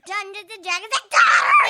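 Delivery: loud excited shout of the show name. Real, not acted. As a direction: announce it proudly at full voice.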